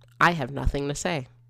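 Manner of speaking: ordinary delivery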